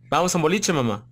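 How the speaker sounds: Buenos Aires lilt, rising on "boliche"; playful porteño accent. Retold or imitated. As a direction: toss it off like a porteño inviting a friend out. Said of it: "me adoro el, el acento porteño".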